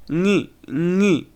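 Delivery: "ni" as a lone nasal syllable; reduced NG ending. Shown as a demonstration. Teacher showing how the ending sounds, isolated "ni". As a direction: isolate "ni" from the end of expecting. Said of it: "it sounds like".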